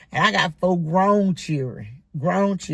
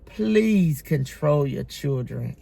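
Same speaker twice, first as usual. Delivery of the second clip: slow sighing plea to parents; tired, slow please; weary plea; 4 semitones lower, slower than usual. Real, not acted. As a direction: sigh it out, worn out.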